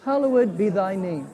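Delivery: steady, measured group prayer recitation; leading the Lord's Prayer to close the study. Real, not acted. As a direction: pray it together, evenly and reverently.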